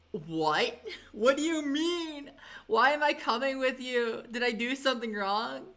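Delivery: high, alarmed protest with a nervous laugh; panicked disbelief. Retold or imitated. To the border guard, alarmed and confused. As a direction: retell the panic of being pulled aside. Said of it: "I was actually shitting bricks".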